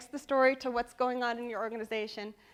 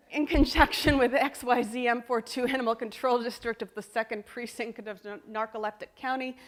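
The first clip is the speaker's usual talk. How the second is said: loud, monotone official jargon; mock bureaucratic announcement; stiff bureaucratic read; 2 semitones higher, 9 dB louder than usual. Shown as a demonstration. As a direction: drone it like a committee memo. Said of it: "some people write like this".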